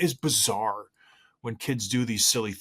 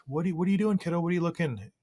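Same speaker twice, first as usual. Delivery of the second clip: puzzled dad; 7 semitones higher, faster than usual. Retold or imitated. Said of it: "I'm like".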